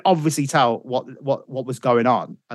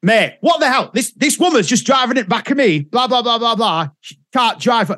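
raised pitch, urgent imitation; acted fluster, higher than usual; agitated phone caller; 8 semitones higher than usual. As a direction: rattle off a hammed-up panicked call. Acts the agitated prank-call exchange.

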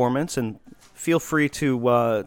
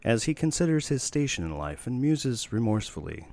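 theatrical stage narration; 2 semitones lower, 5 dB quieter than usual. Acted. Reading a satirical play to his friend, hushed narrator. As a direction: hush the house and paint the stage.

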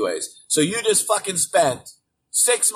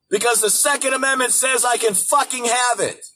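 shouted answer; 5 semitones higher than usual. Real, not acted. Rhetorical answer shouted in rant.

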